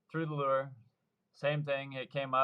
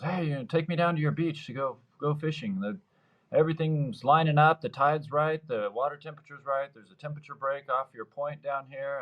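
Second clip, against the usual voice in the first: eager buddy; 4 semitones higher than usual. Retold or imitated. Buddy's pitch to go fishing.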